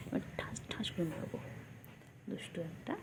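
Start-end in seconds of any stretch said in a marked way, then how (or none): 0.1-1.4 whispered mock threat.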